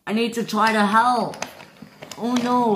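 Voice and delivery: high, anxious exclaiming; acted alarm. Stephen needing to help, high alarmed voice. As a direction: pitch it up in worry.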